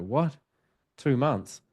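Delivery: mildly incredulous retold question; taken aback. Spirit startled to learn how long he was stuck, mildly incredulous. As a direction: imitate someone caught by surprise.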